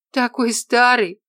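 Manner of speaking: loud, high, drawn-out scoff; snorting scorn. A narrator's reading. Colleague scoffs at the orderly's news, snorting. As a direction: dismiss it with a slow snort. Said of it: "фыркнул кто-то".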